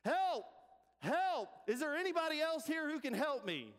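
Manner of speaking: sudden comic holler, high and strong; acted cry for help. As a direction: shout desperately for someone else. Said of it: "Jack, hanging onto that branch, says".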